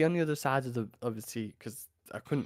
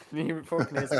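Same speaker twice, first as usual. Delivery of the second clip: disgusted laughter; 4 semitones higher than usual. Real, not acted. Laughing at own fear.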